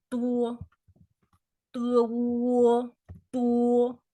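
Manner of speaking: 多 held level and steady; 多 on one level pitch; even tone. Shown as a demonstration. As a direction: keep 多 flat and even, first tone. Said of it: "even tone".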